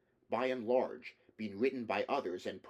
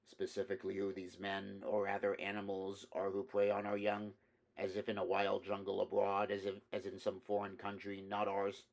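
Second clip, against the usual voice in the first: calmly. Acted. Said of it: "more calmly".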